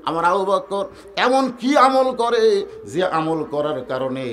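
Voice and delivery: slow, drawn-out sermon cadence; slow devotional storytelling; melodic preaching. Acted. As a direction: draw out the phrase endings like a chant.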